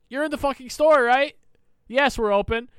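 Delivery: mock the obvious question; incredulous sarcasm. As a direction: cashier answering a clueless customer, sarcastic. Retelling exasperated answer.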